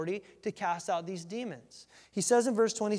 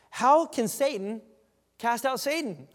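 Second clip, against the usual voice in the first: slow, loud, drawn-out rhetorical question; emphatic preaching question; 6 semitones higher, 7 dB louder, slower than usual. Acted. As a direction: proclaim it to the whole room, slowly. Quoting Jesus's rhetorical challenge.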